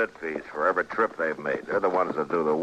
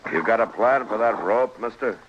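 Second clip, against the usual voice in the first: raised, higher call up into the tree; 5 semitones higher than usual. Acted. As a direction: call out firmly to a stranger at a distance. Matt calls up to man in tree.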